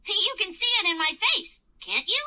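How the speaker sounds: cheerful owl hoot into bouncy talk; sing-song happiness for little children; happy. Acted. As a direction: play a happy cartoon owl. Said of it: "I'm feeling happy".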